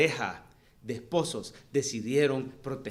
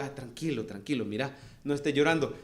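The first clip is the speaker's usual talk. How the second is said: put-on calming a child. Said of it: "Y entonces le dije".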